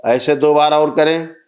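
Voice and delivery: measured, sustained ritual-leader's voice; steady, carrying instructions to a praying group; guided meditation ritual. Real, not acted. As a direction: lead the gathering through each step, evenly intoned. Leads a group breathing and chanting ritual.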